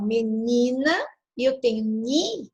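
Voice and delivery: ni in menina drawn out; stress on ni. Shown as a demonstration. Teacher shows class the tonic syllable of menina, stressed. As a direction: lengthen the ni of menina, then isolate it. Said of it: "que é mais forte".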